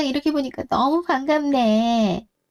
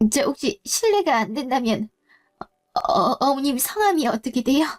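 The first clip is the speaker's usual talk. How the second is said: shaken stammer. Acted. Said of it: "내가 너무 놀래서".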